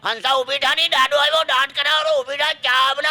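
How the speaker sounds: high, loud holler to someone indoors; calling out. Acted. Surti husband calling his wife to make tea, high holler. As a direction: shout for your wife to get up, in Surti. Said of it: "એના વાઇફને બૂમ પાડી".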